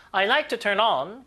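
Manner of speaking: slow, with on punched after turn; stress on on. Shown as a demonstration. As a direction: lean on the particle on in turn on. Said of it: "강세 주시고 구동사 뒤에 강세". (turn on의 on에 강세)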